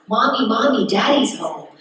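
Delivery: lightly voiced little kid reciting a line; child actor's first line. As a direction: quote the kiddie line in a mild singsong. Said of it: "first line I had to do was".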